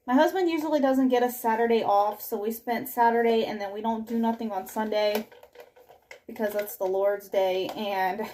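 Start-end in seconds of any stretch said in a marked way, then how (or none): 3.4-8.2 slightly winded while talking; out of breath. Real, not acted. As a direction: talk while a little short of breath. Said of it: "I am almost out of breath".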